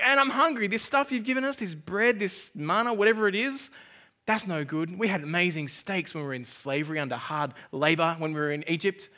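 lightly acted whiny complaint, starting loud and sinking; mock grumbling. Preacher voices Israelites moaning about manna, mock grumbling. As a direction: grumble like a fed-up, hungry crowd.

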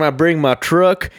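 slow southern drawl; playful, drawn-out southern voice; southern accent. Pretend. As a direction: keep up the mock southern accent. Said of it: "accent, I love doing it".

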